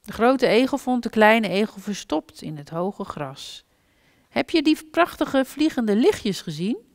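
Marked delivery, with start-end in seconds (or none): 4.3-6.8 high, loud amazed little voice; wide-eyed wonder, pitched up; excited childlike call; excited little hedgehog. A narrator's reading. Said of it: "riep de kleine egel met grote ogen".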